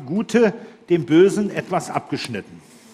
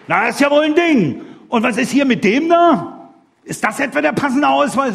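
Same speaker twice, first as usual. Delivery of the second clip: indignant bad hacker; 6 semitones higher than usual. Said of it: "da sagt der Böse".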